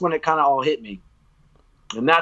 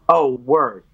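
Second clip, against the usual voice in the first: excited realization; 12 semitones higher, 3 dB louder than usual. Retold or imitated. Discovering song he loves.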